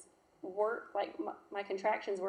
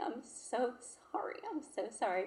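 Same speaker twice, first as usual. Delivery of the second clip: retold crying apology, higher at first then dropping; tearful apology; 3 semitones higher than usual. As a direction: apologize over and over, recalling the tears. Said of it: "I just kept crying".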